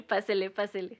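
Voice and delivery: loud vendor call, pásele pásele; hyped fairground barker. Pretend. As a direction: call customers in like a market stall. Market vendor calling customers.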